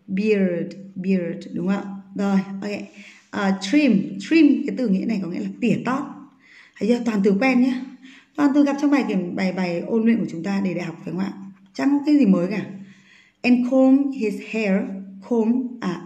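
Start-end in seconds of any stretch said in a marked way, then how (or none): 0.1-1.5 "beard" with the vowel of "ear". Shown as a demonstration. Teacher drawing class attention to phonetics, ear vowel in beard. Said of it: "phiên âm của cho cô là ear". 15.3-15.7 "Comb" ending on m, the B silent. Shown as a demonstration. Teacher warning students not to read it, B kept silent. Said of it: "B là âm cầm".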